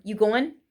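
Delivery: "going" said as go-in, question rising; casual "You going" without the are or the g; dropped g. Shown as a demonstration. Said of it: "it becomes I N instead of I N G".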